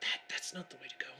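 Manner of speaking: hissing, whispered delivery. Narrating a scene, voicing a figure who hisses at you as you climb, hissing. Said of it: "he sort of hisses at you".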